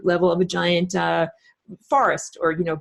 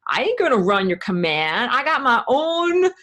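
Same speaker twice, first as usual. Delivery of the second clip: lightly voiced tough-guy computer talking back; a hint of streetwise tough-guy accent; 3 semitones higher than usual. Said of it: "do that tough guy accent".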